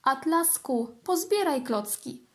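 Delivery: mild asking mum voice; asking mother. Acted. Mother asks the kitten to tidy blocks, lightly voiced. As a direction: gently ask him to pick up. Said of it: "Mama prosiła".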